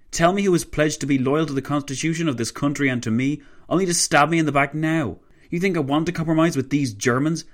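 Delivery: heated, high-pitched tirade; shrieked outrage. A narrator's reading. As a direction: let fury push the voice up. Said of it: "he shrieked".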